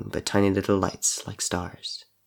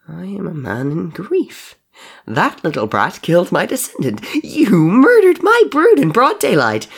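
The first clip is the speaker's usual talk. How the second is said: high-pitched wrathful tirade, getting louder; furious hissing villain; 11 semitones higher, 7 dB louder than usual. A narrator's reading. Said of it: "Henry hissed".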